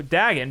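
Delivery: "Dagon" with the first vowel of dagger; short A, like dagger. Shown as a demonstration. Streamer corrects themself on the vampire's name, "Dagon" said DAG-in. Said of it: "because he has a dagger".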